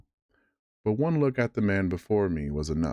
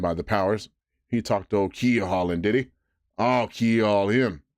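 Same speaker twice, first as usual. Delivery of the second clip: excited; 3 dB louder than usual. Acted. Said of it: "now quite excited".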